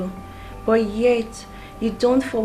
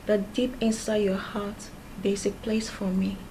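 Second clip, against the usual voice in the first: whispered confession; 2 semitones lower, 7 dB quieter than usual. Acted. Woman confiding love, whispering.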